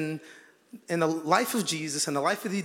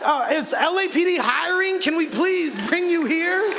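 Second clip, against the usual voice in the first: higher, slow, laughing plea; astonished comic pleading, much higher; amazed begging; 8 semitones higher than usual. Retold or imitated. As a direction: beg him to join the LAPD, half laughing. Acted amazed plea to security.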